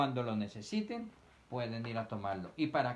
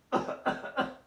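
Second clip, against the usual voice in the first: cough into sleeve. Shown as a demonstration. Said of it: "O toser sobre su manga".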